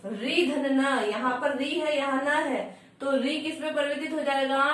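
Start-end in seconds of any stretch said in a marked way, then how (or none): 0.0-1.1 री धन न spelled out very slowly, part by part; teacher slowly spelling out री धन न; slow demo. Shown as a demonstration. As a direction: break री धन न into its parts slowly. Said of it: "जैसे".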